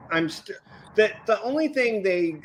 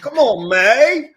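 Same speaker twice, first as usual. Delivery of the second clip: laughing protest; 6 semitones higher, 9 dB louder than usual. Real, not acted.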